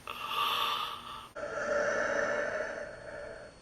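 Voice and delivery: long, drawn-out gasp of joy; overjoyed gasp. Retold or imitated. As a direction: gasp hugely, as if rescue has arrived.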